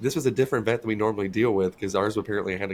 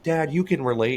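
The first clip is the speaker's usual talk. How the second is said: higher, a bit louder ribbing; teasing jab; 5 semitones higher, 4 dB louder than usual. Retold or imitated. Vets ribbing the owner about his weight, high teasing jab. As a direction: needle him playfully.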